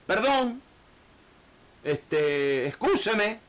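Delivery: a sheepish servant saying sorry; apologetic plea. Retold or imitated.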